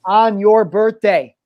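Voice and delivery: hype host announcement. Acted. Hyped show announcement.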